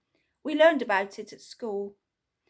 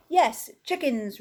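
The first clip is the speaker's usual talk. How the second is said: frantic roar; 3 semitones higher, slower than usual. Acted. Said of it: "roared Mister Ellis frantically".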